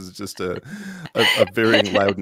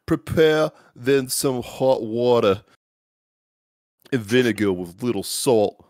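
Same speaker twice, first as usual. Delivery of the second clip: put-on old British accent. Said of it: "it is just a varying loudness".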